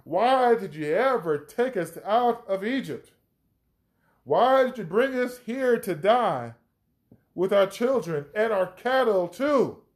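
acted complaint, crying out in protest. Thirsty people blame Moses for leaving Egypt, crying out. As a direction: plead and accuse like a thirsty crowd. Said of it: "they cried out".

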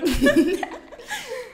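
high, loud peal of laughter. Real, not acted. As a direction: crack up laughing. Laughs at the slip. (risada aguda)

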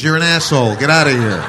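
loud, hammed-up telling off; mock angry shout. Girl throwing the boy out, hammed-up angry shout. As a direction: yell him out of the room.

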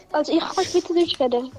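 sentence spoken in Swiss German dialect; casual Swiss German demo. Shown as a demonstration. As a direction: switch into Zürich Swiss German on request. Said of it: "Ey, sprech mal Schweizerdeutsch".

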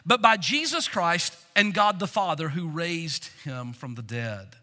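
a preacher reading the text; scripture reading. Acted. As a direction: read it out like holy writ. Reads scripture aloud from Galatians.

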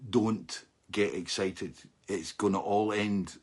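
a slow gloomy warning to himself; inner warning voice. Retold or imitated. His inner voice warning him, slow and grim. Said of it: "the little voice inside my head was going".

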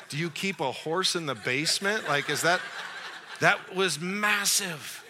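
laughing disbelief. Retold or imitated. Disbelief at the huge dog.

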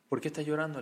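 put-on soft, tender question to a child; gently asking. Rabbi to the crying boy Aharón, gently asking. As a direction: ask softly, as if comforting a little one.

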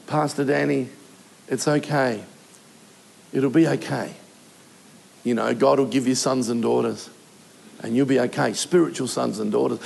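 gently console, as a well-meaning churchgoer would; imitated soothing consoler. A churchgoer consoling the bereaved pastor, imitated low and soothing.

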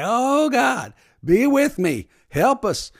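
high, loud mock-panicked plea; desperate prayer. Passenger praying on a falling plane, acted desperate cry. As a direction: cry out to God as if the plane is going down. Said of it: "if I'm on a plane going down".

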